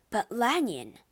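urgent protest. Acted. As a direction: push back against him. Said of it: "Utterson protested".

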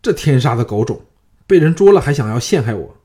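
angry outburst. Acted. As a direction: spit out the curse as it dawns on him. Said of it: "嫪毐恍然大悟说".

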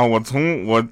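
ordinary delivery

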